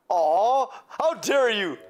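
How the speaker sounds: loud, indignant cry; offended outburst. Acted. Insulted maid snapping back at the rude sailor, loud and indignant. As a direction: bristle and fire it straight back.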